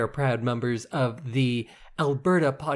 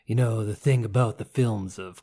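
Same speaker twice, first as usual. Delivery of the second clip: put-on gruff old man; 3 semitones lower than usual. Shown as a demonstration. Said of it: "Why are you so gruff?".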